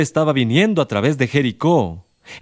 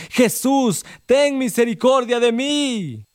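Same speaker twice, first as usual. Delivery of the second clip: high, slow plea for mercy; the blind man cries out again over the beggars' hushing, high and slow; desperate cry; 10 semitones higher, slower than usual. Acted. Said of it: "él más le gritaba".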